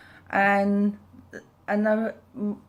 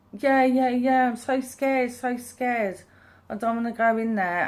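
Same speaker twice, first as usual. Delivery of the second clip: higher, louder mock fright; imitating scared child; 5 semitones higher, 3 dB louder than usual. Kids tell mum they're too scared to go in, mock fearful. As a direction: act the frightened child pleading.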